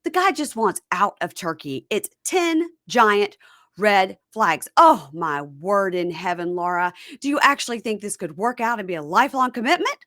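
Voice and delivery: emphatic, exasperated mom imitation; mom's tirade. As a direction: keep lecturing her as an appalled mother. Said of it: "Mom continues and goes".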